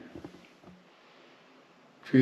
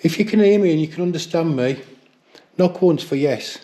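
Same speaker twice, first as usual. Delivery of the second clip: jumpy whispering ghost hunt; 6 semitones higher, 6 dB louder than usual. Real, not acted. Calling out to a spirit.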